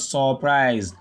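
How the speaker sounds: "surprise" wrongly as saw-prise, with long first vowel; mispronounced AW vowel. Shown as a demonstration. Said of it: "and not surprise".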